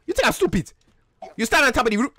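demanding, put-on African accent. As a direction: press for answers in a mock African accent. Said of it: "so you don't have an African accent".

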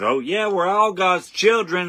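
high, slow, sneering mock voice; high drawn-out mock of a smug coworker. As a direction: parody the coworker's smug claim. Mocking a coworker's claim.

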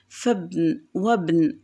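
فابن، وابن with fa and wa run straight into b; no glottal stop before the b in فابن، وابن; hamza dropped. Shown as a demonstration. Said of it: "أيضًا هنا الهمزة همزة وصل".

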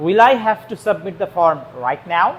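slow dictation. Shown as a demonstration. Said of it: "slow dictation to students".

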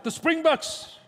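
high, loud burst of fan excitement; excited cheer. Retold or imitated. Friend shouting about the rugby team, excited cheer. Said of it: "most excited I ever saw you".

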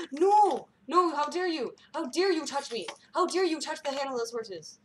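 loud, high mock indignation; shaking with anger. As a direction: play the offended noble, how dare you. Mock outrage at being touched.

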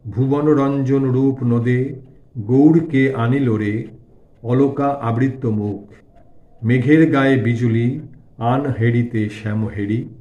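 slow, lingering recital of lyrics; devotional verse recitation. A narrator's reading. Narrator voicing the song Thakur sings, slow devotional recitation. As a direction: draw out each phrase like a hymn.

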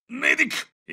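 high-pitched cry for help; urgent call. Acted. Hurt soldier calls for the medic, high and urgent. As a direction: call out across the battlefield.

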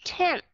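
tenth with the tongue tip between the teeth; model pronunciation. Shown as a demonstration. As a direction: say tenth with a dental N and th. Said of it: "bắt buộc phải cho chót lưỡi cho hai hàm răng". (đọc tenth, chót lưỡi giữa hai hàm răng)

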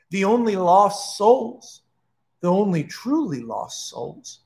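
measured, theatrical villain speech with pauses; a hint of a grand demon addressing lost souls; lightly voiced villain monologue. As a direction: address them all with solemn, unhurried ceremony.

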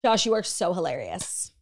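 Long Island vowel in "hilarious"; Long Island pronunciation. Shown as a demonstration. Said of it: "how people pronounce it in Long Island".

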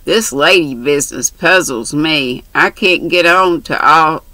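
lightly voiced brash country girl; chatty, bold young girl. Mary's dialogue voiced.

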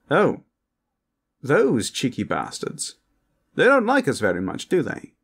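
cheeky, high-pitched posh vampire. Acted. Vampire gossiping to partner about the High Elves, cheekily posh.

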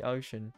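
"ocean" slipping into an odd accent. Real, not acted. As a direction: say "ocean" with an accidental y-like glide. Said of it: "I had an accent with the".

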